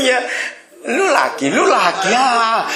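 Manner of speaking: high, laughing "you again"; laughing retort. Pretend. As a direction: greet trouble with a laugh. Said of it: "gimana reaksinya".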